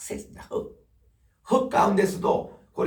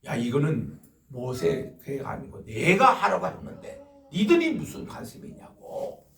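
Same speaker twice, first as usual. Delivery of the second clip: God's anger; 2 semitones higher, 3 dB louder than usual. Retold or imitated. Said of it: "화를 내시다고 그래요".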